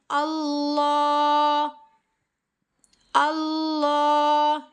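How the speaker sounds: अल्लाह with a thick लाम held one alif long; heavy drawn lam. Shown as a demonstration. Teacher showing the full lam, slow recitation. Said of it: "लाम को एक अलिफ की मिकदार के बराबर खींच कर".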